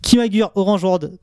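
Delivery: "Kimagure Orange World" in a very French accent; thick French accent. Shown as a demonstration. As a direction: say the title as a Frenchman would. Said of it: "avec mon accent bien français".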